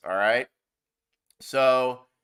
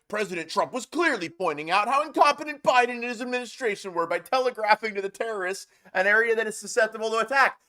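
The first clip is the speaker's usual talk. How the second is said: reading the quote aloud in a higher, sarcastic voice; mocking read-out; 6 semitones higher, faster than usual. Reading a rival's post aloud, mocking it in a higher voice. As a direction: sneer through the quote, pitched up. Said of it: "Jeremy Redfern put up a really funny".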